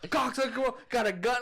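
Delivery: high-pitched mock fury; Zac Efron, angry. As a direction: imitate an armed man's angry outburst. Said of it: "came in angry as fuck".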